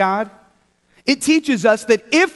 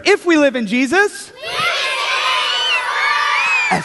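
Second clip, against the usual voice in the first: raised, higher call to the group; louder. Shown as a demonstration. Leader urges children to answer louder, raised voice. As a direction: lift the voice to rally a response.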